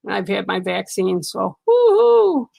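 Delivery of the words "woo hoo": high, drawn-out cheer; woo-hoo. Real, not acted. Telling viewers she's had her vaccine, a high stretched woo-hoo.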